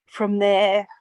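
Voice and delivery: fighting tears, rushed apology; choked up, laughing it off; teary. Real, not acted. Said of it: "I'm getting all teary".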